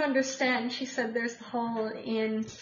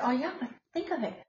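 put-on Russian accent. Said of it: "with a fabulous Russian accent".

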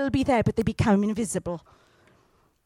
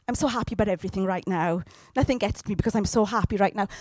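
mock grinning cheer; 4 semitones lower, faster than usual. Mocking believers who fake happiness, rattled off with a grin. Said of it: "walk around with a grin on going".

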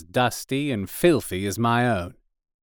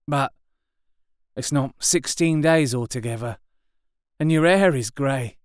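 gruff possessive survivor; artilleryman; 5 semitones higher than usual. A narrator's reading. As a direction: warn him off his patch. Artilleryman recounts.

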